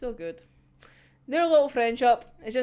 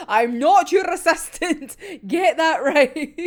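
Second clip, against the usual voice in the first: mock-indignant comeback, louder and drawn out at the end; indignant retort; 4 semitones higher, 5 dB louder than usual. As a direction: retort as if insulted, slowing on the last words. Retold indignant retort to being ordered.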